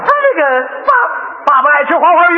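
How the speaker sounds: high, drawn-out stammer, then blurt; flustered blurting. Acted. Father cornered by son's question, flustered. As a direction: grope for an answer in mock panic.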